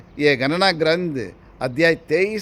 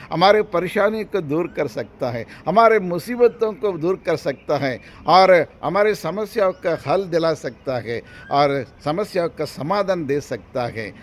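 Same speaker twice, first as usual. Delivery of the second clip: emphatic parallel phrases in a rolling cadence; fervent preaching; 6 semitones higher, 6 dB louder than usual. Acted. Preacher listing what the risen Lord can do, fervent preaching. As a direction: hammer home each promise.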